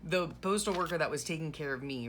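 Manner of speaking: ordinary talk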